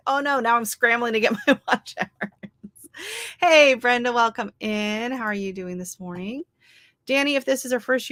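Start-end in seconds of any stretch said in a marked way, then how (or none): 0.1-2.9 laughing panic. Retold or imitated. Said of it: "I'm like".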